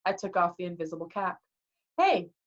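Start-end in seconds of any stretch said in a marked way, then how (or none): 2.0-2.3 high, sudden shout; calling out. A narrator's reading. Hero unmasking himself to the Furies, high shout. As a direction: shout to draw their attention.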